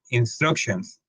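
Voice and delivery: slow, puzzled English; mock textbook English. Student hears the textbook instruction, said slowly in English. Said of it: "te dicen".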